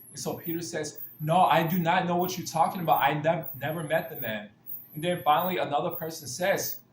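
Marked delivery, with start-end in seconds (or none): 1.2-4.5 acted protest of innocence; emphatic denial. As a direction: deny it firmly, raising the voice. Peter's acted denial to an accuser.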